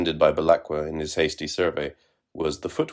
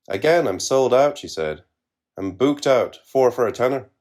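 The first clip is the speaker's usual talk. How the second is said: high, louder hawker cry; white voice; 6 semitones higher, 4 dB louder than usual. A narrator's reading. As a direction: shout it like a street seller. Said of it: "the same white voice".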